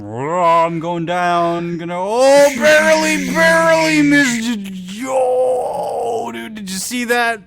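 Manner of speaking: slow at first then high and loud; hammed-up ship voice. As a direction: wail it like a sinking ship. Ship voiced in goofy retelling.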